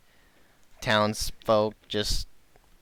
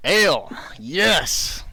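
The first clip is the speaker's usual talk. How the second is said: drawn-out, higher barkeep; slow innkeeper voice; 6 semitones higher, 3 dB louder, much slower than usual. Acted. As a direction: stretch it like a jolly innkeeper. Innkeeper answers in character.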